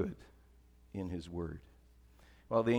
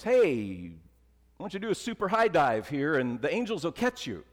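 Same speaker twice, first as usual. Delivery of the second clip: loud, high, coaxing devil voice; the devil egging Jesus on, loud and high; tempting devil; 5 semitones higher, 5 dB louder than usual. Retold or imitated. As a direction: dare him like a sly tempter, raised and high.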